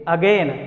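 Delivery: "अगेन" with stretched gliding ending, "a-gaain"; corrected pronunciation. Shown as a demonstration. Teacher answering what to say instead, corrected long "अगेन". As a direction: lengthen the second syllable of "अगेन". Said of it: "इसको क्या बोलेंगे".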